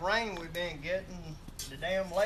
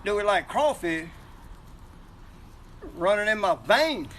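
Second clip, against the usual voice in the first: emphatic yes; 3 semitones higher, 4 dB louder than usual. Real, not acted. Asked if they like crawfish.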